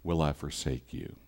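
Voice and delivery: soft and hushed, never will I forsake you; soft promise. A narrator's reading. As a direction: let the promise settle gently. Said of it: "his word also says".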